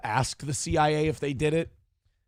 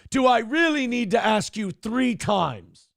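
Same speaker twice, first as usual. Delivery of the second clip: exasperated; 7 semitones higher than usual. Shown as a demonstration. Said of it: "No, you see".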